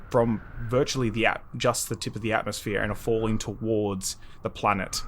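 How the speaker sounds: measured, deliberate storytelling; game master narration. Acted. Game master telling players they are falling, measured narration. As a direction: set the scene with drawn-out pauses.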